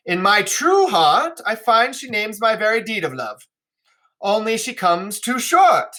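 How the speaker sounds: a touch of a flattering princess; Regan's flattering speech. Acted. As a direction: read it as a courtly declaration of love. Teacher reads Regan's speech.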